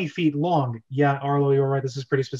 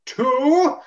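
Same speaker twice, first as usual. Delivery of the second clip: higher, louder count; countdown call; 10 semitones higher, 6 dB louder than usual. Acted. Captain counting down the execution. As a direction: call the number.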